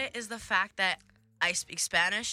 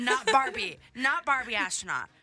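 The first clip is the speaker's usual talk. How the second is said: mock deadpan; 2 semitones higher, 4 dB louder than usual. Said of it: "Her smile just dropped".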